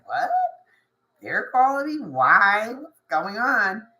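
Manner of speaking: startled, rising questions; surprised. Retold or imitated. The listener caught off guard by a sudden call, surprised. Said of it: "you're like".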